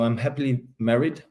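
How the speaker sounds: normal talking voice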